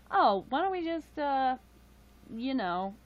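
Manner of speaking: sudden high, loud burst of an idea; excited idea. Retold or imitated. Retelling to stream viewers her idea in therapy, excited. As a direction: pitch the game idea with a jump of excitement. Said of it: "And then I was like".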